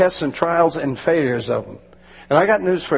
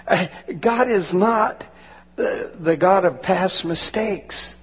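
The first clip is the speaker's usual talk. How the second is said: tearful; 3 semitones higher, slower than usual. Real, not acted. Preacher tearful, slowing.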